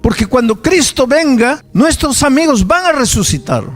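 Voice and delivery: put-on hopeful girl. Girl testifies hope to father.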